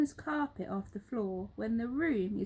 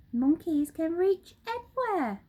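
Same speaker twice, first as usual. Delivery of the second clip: higher, louder bossy monkey shout; 7 semitones higher, 6 dB louder than usual. Acted. Mugglewump insisting to his helpers, loud shout. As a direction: brush off the doubt. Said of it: "shouted Mugglewump".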